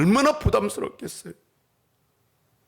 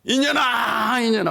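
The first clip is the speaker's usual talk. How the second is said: mock child crying; 3 semitones higher, slower than usual. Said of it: "하고 울어요".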